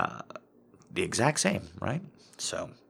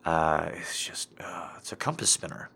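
whispering; 3 dB quieter than usual. Real, not acted. Lost, voice sinks to whisper.

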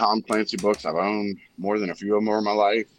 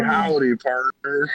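higher-pitched mock howdy; lightly mimicked cowboy greeting; 4 semitones higher, slower than usual. Retelling Bobby's joke about John Wayne, mock cowboy. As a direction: greet them like a half-serious cowboy, pitched up. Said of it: "he's like".

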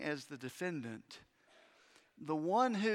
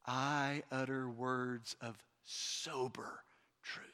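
whispered emphasis; 7 semitones lower, 6 dB quieter, slower than usual. Shown as a demonstration. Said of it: "repeated softly as emphasis".

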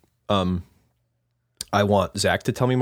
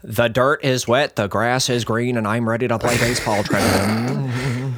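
AM baseball announcer. Acted. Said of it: "an A M baseball announcer".

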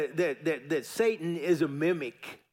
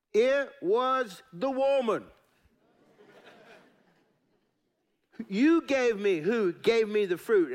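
higher, pleading excuse; Adam blaming; 4 semitones higher than usual. Acted. Adam pleading his excuse to God, higher. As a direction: shift the blame, defensive.

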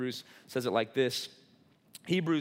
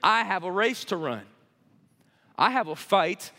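preaching; 2 semitones lower than usual. Acted. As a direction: preach it big and let it fade. Preacher quoting Paul.

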